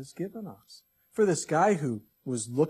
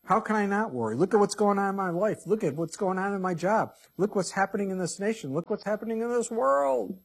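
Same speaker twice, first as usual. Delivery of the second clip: high, mounting exasperation, climbing to the end; worried listener's protest; 5 semitones higher, 4 dB louder than usual. Acted. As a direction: protest item by item, getting more worked up. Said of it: "you may be sitting there going".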